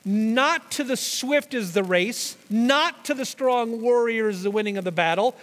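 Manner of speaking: each "Not" and "not" pushed to the front and leaned on, slowish; stress on NOT. Shown as a demonstration. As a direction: Hebrew word order, "not" stressed. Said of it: "the Hebrew text reads a little bit more like this".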